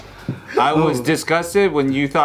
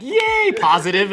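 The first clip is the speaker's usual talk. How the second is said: mock cheery; 3 semitones higher than usual. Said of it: "But she's out here like".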